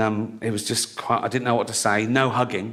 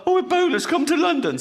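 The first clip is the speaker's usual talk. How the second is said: mock panic; 12 semitones higher than usual. Mocking panicked media.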